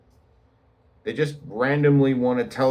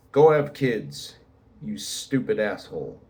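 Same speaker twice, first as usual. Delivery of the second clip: mock anger. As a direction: imitate a bitter commenter, drawing out the order. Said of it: "really angry, really bitter and frustrated".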